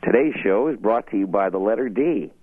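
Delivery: put-on a touch of a Sesame Street announcer in a Boston accent; Sesame Street Boston bit. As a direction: announce the letter like a kids' show host from Boston. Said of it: "I used to do a bit".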